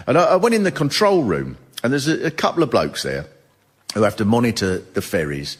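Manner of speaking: ordinary delivery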